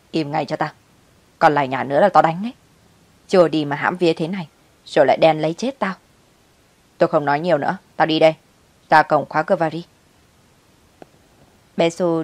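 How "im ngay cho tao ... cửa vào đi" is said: harsh threat. Acted. Mother cutting off her crying child with a threat.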